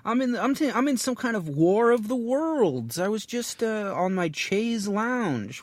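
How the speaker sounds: high-pitched, loud amazed outburst; hammed-up, drawn-out bewilderment; mock astonishment. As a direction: play someone suddenly dropped into an adventure. Acting out being transported by a book.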